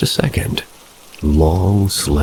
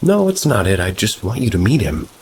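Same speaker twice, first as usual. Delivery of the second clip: put-on higher, hurt girlfriend voice; a hint of a wounded childlike girlfriend; upset girlfriend; 6 semitones higher than usual. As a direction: plead like she's been misunderstood. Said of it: "She gets a little bit upset and says".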